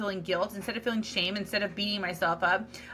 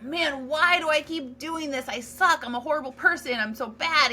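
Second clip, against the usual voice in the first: self-berating voice; 4 semitones higher than usual. Retold or imitated. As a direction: play the harsh inner critic tearing yourself down. Acting harsh inner self-critic.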